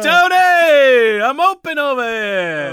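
high, slow, loud Italian-American call; Italian-American accent. Acted. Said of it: "She's doing accents".

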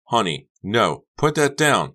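loud shriek rising high; alarmed shriek. A narrator's reading. Becca facing Honey's pistol, alarmed shriek. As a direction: shriek it in panic. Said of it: "Becca shrieked".

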